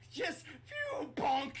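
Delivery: laughing. Real, not acted. Laughing fit.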